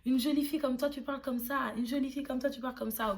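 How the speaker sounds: remontrance imitée, plus aiguë; mock reproach. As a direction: imite les gens qui la critiquent, légèrement moqueuse. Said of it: "on m'a souvent dit". (les gens qui la jugent : reproche moqueur, plus aigu)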